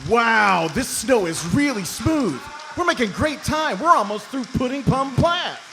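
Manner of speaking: high excited shout; shouting over engine. Acted. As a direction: yell over the snowmobile noise.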